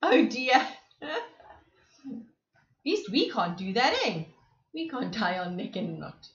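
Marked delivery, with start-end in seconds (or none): none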